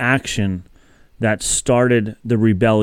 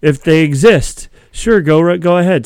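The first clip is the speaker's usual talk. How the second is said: sarcastic; 5 semitones higher, 3 dB louder than usual. Retold or imitated. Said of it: "I'm like".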